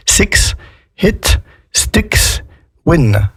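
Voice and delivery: "Six, hit, sticks, win" with short "i", word by word; short English I. Shown as a demonstration. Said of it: "on a des I qui se prononcent I".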